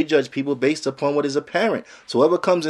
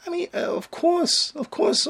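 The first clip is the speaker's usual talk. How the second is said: sarcastic concession; slower than usual. Acted.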